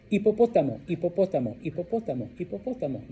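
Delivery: hipopótamo said the Spanish way, i-po-PO-ta-mo. Shown as a demonstration. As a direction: repeat hipopótamo with clear Spanish vowels. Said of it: "I like saying it, mucho, mucho".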